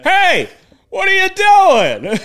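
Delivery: very high, loud drawn-out mock shout; high mock yell. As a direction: call out to the guy lost in the lake, squealing. Golf pro calls to guy in lake.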